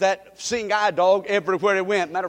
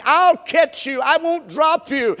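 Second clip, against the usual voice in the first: father promising; 5 semitones higher, 6 dB louder, slower than usual. Retold or imitated. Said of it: "And the daddy said".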